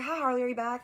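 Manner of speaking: lightly voiced Southern lady; sweet Southern nurse. Nurse greets Harley on the phone, sweet Southern voice. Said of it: "this lovely Southern woman".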